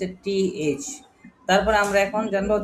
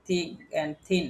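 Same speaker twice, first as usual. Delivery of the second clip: slow demo; 4 dB quieter, much slower than usual. Shown as a demonstration. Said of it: "থিন মানে হচ্ছে আমরা বলে, বলি".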